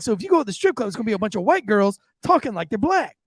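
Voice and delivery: imitated high-pitched Southern waitress; Southern accent. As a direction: wrap up the explanation in Southern tones. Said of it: "real Southern accent".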